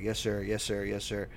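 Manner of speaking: soft, resigned repeated replies; tired son. Retold or imitated. Tired son drinking water, answering dad, quietly obedient. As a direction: imitate a worn-out kid dutifully answering. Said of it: "just, like, tired and".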